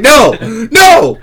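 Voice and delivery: high, loud, yelled 'No! No!'; mock protest. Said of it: "and he's like".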